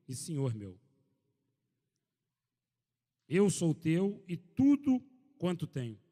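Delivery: loud, measured Bible reading to a congregation; solemn public reading of the Bible passage; scripture reading. Acted. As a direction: proclaim the text to the room, slow on the quotes. Reads scripture to the group.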